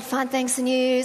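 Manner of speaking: mildly annoyed, curt politeness; reply politely with irritation showing through; irritated. Retold or imitated. Busy preacher replying to an unwanted caller, mildly irritated. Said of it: "I'm really not hiding my irritation".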